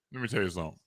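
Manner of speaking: put-on low, quiet stern old man; old man lecture. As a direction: lean in like granddaddy. Imitating granddaddy's lecture.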